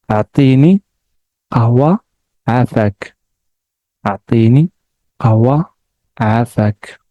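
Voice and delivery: the words run together quickly; fast. Shown as a demonstration. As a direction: rattle the phrase off fast. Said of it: "So fast".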